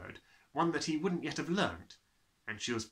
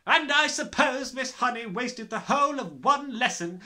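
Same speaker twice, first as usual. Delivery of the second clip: loud sarcastic headmistress; 12 semitones higher, 8 dB louder than usual. Acted. Trunchbull sarcastic.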